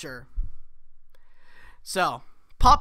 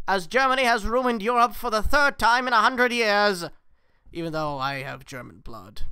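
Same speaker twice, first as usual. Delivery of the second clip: 1940s radio voice. Acted. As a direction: announce it like a wartime radio bulletin. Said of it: "That was my nineteen forties radio voice".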